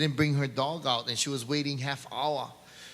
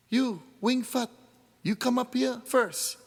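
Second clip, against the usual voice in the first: executioner's voice; 9 semitones higher than usual. Acted.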